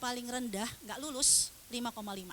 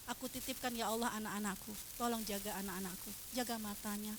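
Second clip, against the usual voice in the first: mother's prayer; 6 dB quieter, faster than usual. Acted. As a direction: pray softly for your children.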